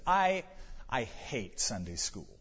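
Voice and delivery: lightly voiced sulky child, dropping low and soft; nose turned up. Grandpa retelling his granddaughter's sulky complaint, a hint of pouting child. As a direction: pout it out like a grumpy granddaughter. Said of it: "she turned up her nose".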